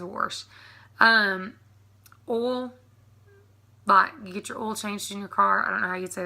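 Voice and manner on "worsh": "wash" said "worsh", with an R; R slipped into wash; local warsh. Retold or imitated. Imitating everybody back home, worsh. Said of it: "ninety percent of everybody says wash".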